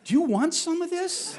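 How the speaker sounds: teasing the costumed owls, high-pitched mock taunt; mock challenge. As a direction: dare the owl, half laughing. Teasing the owl mascots.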